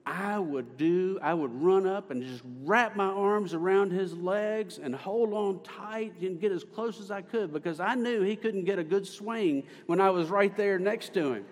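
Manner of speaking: lightly imitated woman telling her childhood memory; mild impression of a churchwoman reminiscing; Miss Penner. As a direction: retell it in her voice, lifted above narration. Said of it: "She said it like this".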